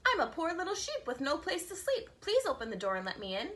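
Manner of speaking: a hint of a sweet little sheep voice. Wolf in sheepskin begging at the door, lightly sweet voice. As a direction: sweeten it up, faking a lamb. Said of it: "in a sweet little voice".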